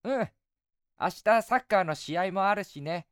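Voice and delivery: put-on high, eager young boy. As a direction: play a cheerful little boy. Boy replies.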